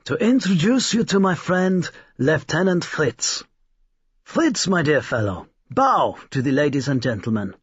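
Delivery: high, showman's flourish; old toymaker announcing to the guests; grand announcement. A narrator's reading. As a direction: present it like a ringmaster. Old man presents his automaton.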